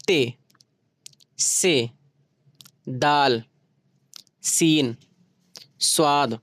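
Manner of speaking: ते, से, दाल said one by one against the teeth; slow spaced sounding of सीन and स्वाद; teeth letters drill. Shown as a demonstration. Teacher telling students to try the teeth letters, paced drill. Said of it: "बोल कर देख लो".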